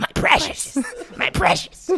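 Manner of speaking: breathy, doting, possessive whisper. Joking about a friend perched on a pedestal: Smeagol voice. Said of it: "Gets up there like Smeagol on the pedestal".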